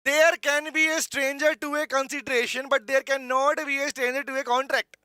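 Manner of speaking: slow English line with a South Indian lilt; South Indian accent. Real, not acted. Teacher reading the legal line to students, South Indian accent. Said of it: "साउथ Indian accent आ गया दोबारा से".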